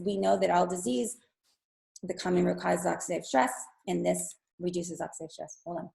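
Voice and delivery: strained, hoarse voice giving out; hoarse voice, fading toward the end; losing her voice. Real, not acted. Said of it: "I'm losing my voice".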